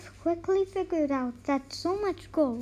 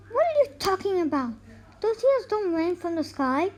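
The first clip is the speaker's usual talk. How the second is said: fast, raised robbers' retort; shouting; 3 semitones higher, faster than usual. Acted. Robbers shout at the woodcutter, fast and raised. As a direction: snap back in disbelief. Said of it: "the robbers shouted".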